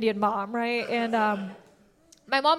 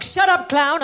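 mom; 4 semitones higher, 5 dB louder than usual. Retold or imitated. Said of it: "She's like".

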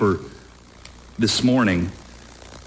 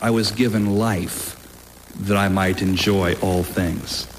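prayer reading. Acted. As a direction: read it like a sacred poem. Reads a soldier's prayer aloud.

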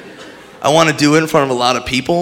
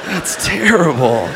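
freaked-out bystander yelling; shocked bystander; 9 semitones higher than usual. Pretend. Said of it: "Be like".

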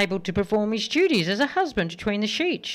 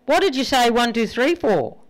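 higher, louder puzzled wife; a touch of a baffled wife; 4 semitones higher, 4 dB louder than usual. Acted. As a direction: ask it with innocent surprise. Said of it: "His wife rolls over and asked".

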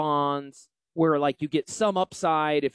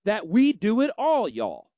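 mock mountaintop shout; 6 semitones higher, slower than usual. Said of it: "scream from it".

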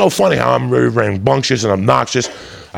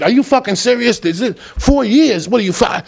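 stunned disbelief; 10 semitones higher than usual. Retold or imitated.

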